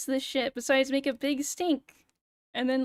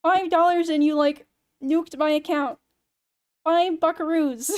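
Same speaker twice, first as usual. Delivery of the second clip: slow, louder, every word hammered; exasperated outrage; 4 semitones higher, 8 dB louder than usual. Real, not acted. Streamer venting to chat about the tiny donation, slow and outraged. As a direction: drag out the disbelief over five dollars.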